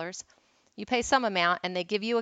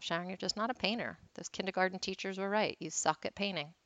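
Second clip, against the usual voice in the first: soft, resigned self-talk; retold self-talk; 6 dB quieter than usual. Failed painter telling herself off, quiet self-talk. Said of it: "I was just telling myself".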